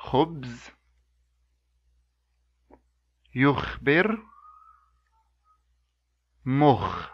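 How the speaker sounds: "Himar, yahki, yamsah" each clear with a pause for echo; model words for repeating. Shown as a demonstration. Teacher leading a repeat-after-me drill. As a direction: leave space for the class to repeat. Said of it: "Now repeat after me".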